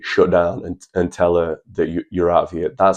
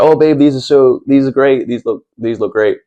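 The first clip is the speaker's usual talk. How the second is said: higher and louder, over-the-top praise; mock gushing boyfriend; 6 semitones higher, 4 dB louder than usual. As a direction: gush like a boyfriend faking delight. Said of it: "I'd be like".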